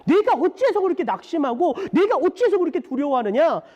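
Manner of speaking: mild exhortation, rising in pitch, slowing at the close; crying out to oneself. Retold or imitated. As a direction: urge your own soul to hope. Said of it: "자기 자신에게 외쳐요".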